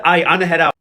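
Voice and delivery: a hint of SpongeBob bailing out; SpongeBob meme. Lawyer quits on Josiane, light SpongeBob meme voice. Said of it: "did the SpongeBob meme".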